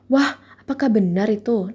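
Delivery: "Wah" lifted, then "apakah benar itu?" rising like a surprised question; lively rising-falling tune. Shown as a demonstration. Teacher showing students how direct speech sounds, lilting up-and-down tune. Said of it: "intonasinya itu naik turun".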